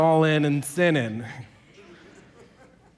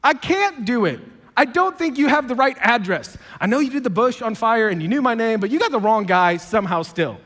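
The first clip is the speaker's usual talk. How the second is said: protesting refusal; 3 semitones higher than usual. Retold or imitated. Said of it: "he's like".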